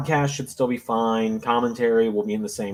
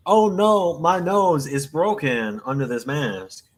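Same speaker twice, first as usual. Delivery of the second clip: hit hard crying out; 4 semitones higher, slower than usual. Retold or imitated. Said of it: "What was that voice?".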